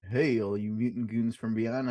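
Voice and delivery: low, measured airline pilot voice; like a captain over the cabin speaker. Pretend. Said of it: "I'm trying to talk like an airline pilot".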